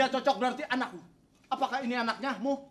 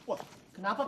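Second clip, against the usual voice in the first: overwrought soap opera gasps; 2 semitones lower, 5 dB quieter than usual. Acted. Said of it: "Kayak sinetron ya".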